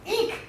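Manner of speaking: a short shrill eek; little piercing eek of frustration; piercing little shout. Acted. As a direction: squeal it out, piercing but small. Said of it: "with a piercing little shout".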